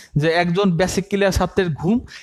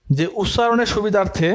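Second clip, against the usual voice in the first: slow dictation; slower than usual. Shown as a demonstration. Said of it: "আমি বলতেছি".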